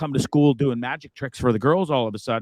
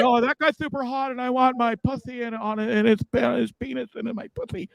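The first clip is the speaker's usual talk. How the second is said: high mock girly voice, laughing; 10 semitones higher than usual. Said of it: "How about".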